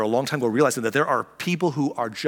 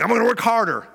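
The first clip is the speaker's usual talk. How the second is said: higher, louder determined voice; mock workaholic; 9 semitones higher, 5 dB louder than usual. Pastor imitating a workaholic in the pews, high and loud. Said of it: "You're like".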